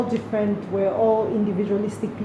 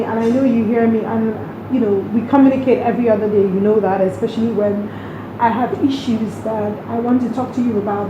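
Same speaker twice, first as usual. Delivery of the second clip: louder, real emotion pushing through; openly moved, voice raised; emotional; 5 dB louder than usual. Real, not acted. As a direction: speak straight to her late mother, moved. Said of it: "You can see I'm getting emotional".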